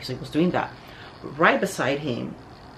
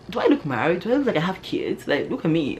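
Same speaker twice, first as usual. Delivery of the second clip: higher, rising incredulous questions; indignant disbelief; 3 semitones higher than usual. Acted. Woman protesting being taken for a mother, indignant. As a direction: demand it as if mildly offended.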